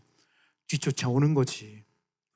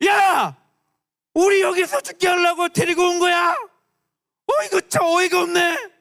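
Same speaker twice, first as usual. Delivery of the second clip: high, loud furious yelling; angry complaint; 14 semitones higher, 5 dB louder than usual. Acted. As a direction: yell at Moses in outrage. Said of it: "그러면서 불평을 하는 거지".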